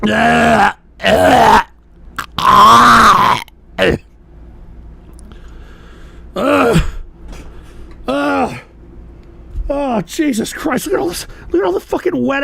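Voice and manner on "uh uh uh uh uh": strained groans. Real, not acted. Groaning over the mess.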